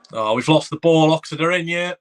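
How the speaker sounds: sudden jump up in pitch and volume as the ball is lost; alarmed excitement. Real, not acted. Fan watching his team concede a chance, alarmed and loud. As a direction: react fast, alarmed, then grudgingly impressed.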